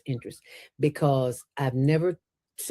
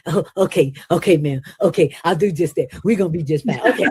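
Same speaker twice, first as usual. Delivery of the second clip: meek backing down; 5 dB louder, faster than usual. Retold or imitated. Mocking the man backing down.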